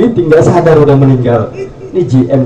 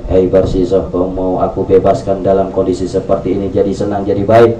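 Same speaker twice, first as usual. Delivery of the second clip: the devil whispering into his heart, lower and hushed; devil tempting inwardly; 5 semitones lower than usual. Acted. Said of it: "kata setan dalam batin".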